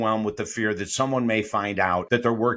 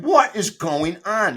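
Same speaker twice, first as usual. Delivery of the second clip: slow, higher baffled cry, imitating Charles; mock disbelief; 6 semitones higher, slower than usual. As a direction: stretch out the confusion.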